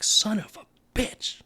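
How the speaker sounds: high, slow, shocked mom voice; imitating a startled mother swearing; mom cursing. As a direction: play the sweet mom who never cusses. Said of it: "my mom's a preschool teacher, never cusses".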